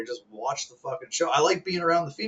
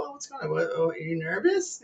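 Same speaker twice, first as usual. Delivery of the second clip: teasing; 3 semitones higher than usual. Retold or imitated. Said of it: "you just sit there and go".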